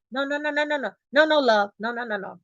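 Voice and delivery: soft, hushed string of noes; correcting husband. Retold or imitated. Husband interrupting wife's hollering, soft correction. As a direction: mimic a husband quietly cutting in. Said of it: "Here we gonna say".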